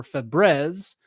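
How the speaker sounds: playful French-style "Febreze", ending drawn out like "breh-z"; French pronunciation. Shown as a demonstration. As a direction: say "Febreze" slowly as if French, second vowel "eh". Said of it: "use a French pronunciation".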